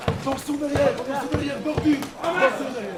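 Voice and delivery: loud high warning shout; shouting orders over battle. Real, not acted. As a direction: yell a warning across the field. Warning fighters during live battle.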